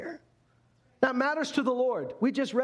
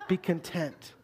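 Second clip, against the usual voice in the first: mock mom; 3 semitones lower, slower than usual. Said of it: "your mom says".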